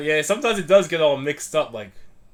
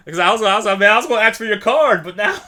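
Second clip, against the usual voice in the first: excited; 8 semitones higher, 11 dB louder than usual. Retold or imitated. Excited retold reaction.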